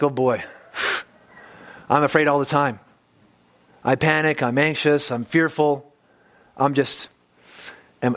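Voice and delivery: mock a gloomy Christian feeling sorry for himself; a hint of mopey self-pity. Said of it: "That kind of moping".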